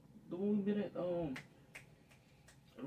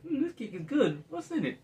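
mocking white lady; 12 semitones higher, 7 dB louder than usual.

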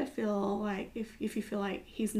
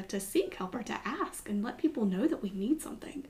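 whisper. Real, not acted. Earnest point, voice drops.

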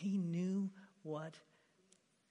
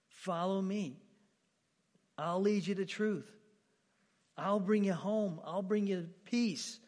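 louder, higher, slowing on peace; fervent invitation; 4 semitones higher, 7 dB louder than usual. Acted. Preacher voicing Jesus calling his hearers, louder and higher. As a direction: call them home with growing force. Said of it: "He says stuff like this".

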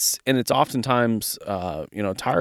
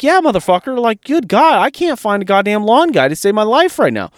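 much higher and louder, all fired up; excited retold reply; 7 semitones higher, 4 dB louder than usual. Cheering on the kid he coached, loud and fired up. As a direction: hype the kid up, almost shouting.

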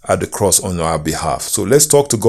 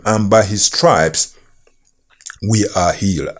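whispered scripture. Acted. Scripture read, key phrase hushed.

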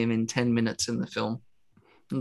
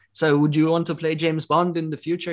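lightly put-on, higher Italian accent; bad Italian accent; 6 semitones higher than usual. Podcaster imitating an interviewer asking about James Bond, bad Italian accent. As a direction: do a rough mock Italian accent. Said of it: "That's my shitty Italian accent".

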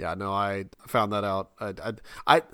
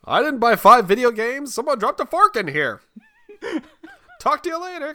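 higher, louder bluster; mock defensive; 14 semitones higher, 6 dB louder than usual. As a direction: talk over the noise to escape. Voicing defensive husband.

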